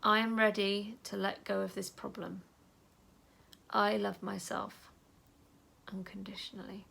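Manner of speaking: calm self-talk while tapping; gentle affirmation. Shown as a demonstration. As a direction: say it tenderly to yourself. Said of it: "I'm gonna tap there and say".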